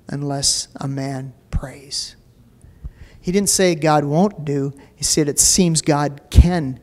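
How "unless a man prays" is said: whispered. Acted. Whispered quote of Wesley.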